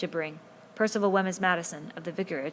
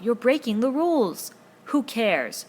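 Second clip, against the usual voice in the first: loud, higher protest; shouting; 5 semitones higher, 7 dB louder, slower than usual. A narrator's reading. Ralph and Jack shout at each other. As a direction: shout across the row. The quarrel goes on.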